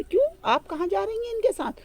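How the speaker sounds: high, pointed question; mock surprise. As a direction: feign shock she leaves. Tenali questions the wife. (ऊँचे स्वर में बनावटी हैरानी)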